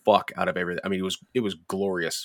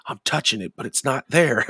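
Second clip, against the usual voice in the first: high-pitched imitation of a giggly stoned friend; baffled stoner, pitch climbing at the end; mock giggly bewilderment; Magoo; 5 semitones higher than usual. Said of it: "Magoo starts getting this giggle going".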